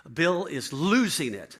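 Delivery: wife urgently warning the pastor, loud; frantic. Retold or imitated. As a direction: stress each word in retold panic. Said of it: "And she's frantic".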